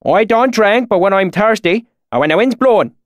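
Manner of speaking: high, loud thick rural dialect; thick deep valley accent. A narrator's reading. Swineherd greets strangers in thick valley accent. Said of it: "his accent so thick".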